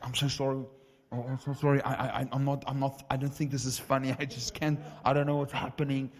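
retold helpless apology, voice pushed up; imitating hysterics. Friend overcome during prayer apologizes, imitated hysterical fluster. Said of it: "hysterically starts laughing".

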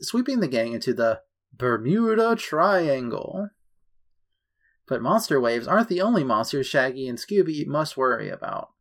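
animated announcer-style storytelling; case-file read. Acted. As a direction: lively narrator reading a cartoon synopsis. Reads a case file aloud.

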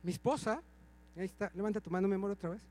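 más bajo, como aparte íntimo; aparte suave. Real, not acted. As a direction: hablarle quedito a la esposa. Aparte a su esposa. (aparte tierno, más bajo)

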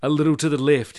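dying vampire giving directions, croaking; croaked. Acted. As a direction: croak it out in pain. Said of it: "he croaked".

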